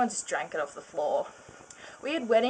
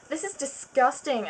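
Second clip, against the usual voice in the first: mock disgust; 5 semitones higher than usual. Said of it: "I said with disgust".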